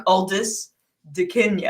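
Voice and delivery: giggling the fake name; laughing. Real, not acted.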